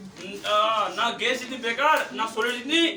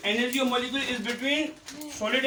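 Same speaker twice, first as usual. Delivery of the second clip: slow, raised pitch, held open at the end; slow dictation; 4 semitones higher, slower than usual. Real, not acted. Teacher feeding pupils a sentence to write, slow dictation. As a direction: dictate slowly with a rising, waiting end.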